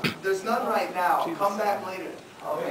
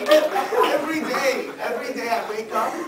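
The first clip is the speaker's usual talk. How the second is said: high pitched laugh into speech; 7 semitones higher, 7 dB louder than usual. Real, not acted. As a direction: laugh while starting. Laughing over afro joke.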